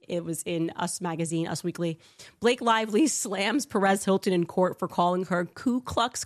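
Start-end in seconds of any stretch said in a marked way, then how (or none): 2.4-6.2 headline read. Real, not acted. Reading a tabloid headline aloud.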